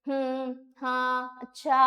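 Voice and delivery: drawn-out listener noises, हम्म then हाँ, अच्छा अच्छा; paralinguistic sounds demo. Shown as a demonstration. Teacher demonstrates paralinguistic fillers to students, slow and drawn out. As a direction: show the sounds people make without real words. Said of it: "paralinguistic मतलब ... जैसे".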